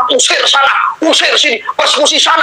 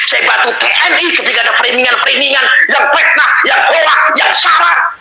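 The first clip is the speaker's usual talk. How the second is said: tearful shout, pitch climbing; crying out; 4 semitones higher than usual. Real, not acted. Pleading to the police, shouting through tears. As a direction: near tears and shouting his grievance. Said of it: "Nangis loh, Pak".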